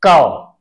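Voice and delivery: कौ said clearly as kau; syllable demo. Shown as a demonstration. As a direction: model कौ slowly and cleanly. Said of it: "बड़े ओ की मात्रा के साथ". (कौ को साफ़ बोलिए)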